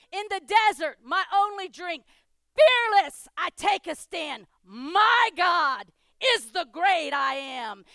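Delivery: from fervent recitation to a slow shouted climax; preacher's rising roar; building to a shout. Acted. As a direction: build it until you shout the name.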